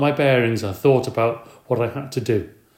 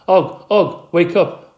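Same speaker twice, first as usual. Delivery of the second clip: raised, urgent calling out; 7 semitones higher, 7 dB louder, much slower than usual. A narrator's reading. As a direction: call out to wake a friend. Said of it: "I said".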